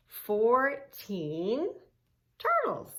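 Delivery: turtles squealed very high; squeaky delight. Shown as a demonstration.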